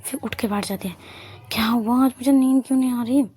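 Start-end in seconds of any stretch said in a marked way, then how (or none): 1.5-3.3 higher and louder wondering to herself; lightly voiced sleepless girl, baffled; a hint of restless confusion; puzzled self-question. A narrator's reading. Sleepless, asking herself aloud.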